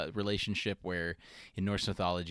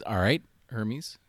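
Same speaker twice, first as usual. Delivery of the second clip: mock Zeus; 2 semitones higher, 7 dB louder than usual. Host imitates Zeus judging baby Hermes, mock-solemn louder voice. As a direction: play Zeus putting the baby on trial. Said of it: "Zeus is".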